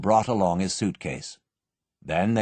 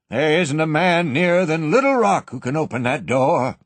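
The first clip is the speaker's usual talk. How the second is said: shaky voice; 6 semitones higher, 4 dB louder than usual. A narrator's reading. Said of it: "in a shaky voice".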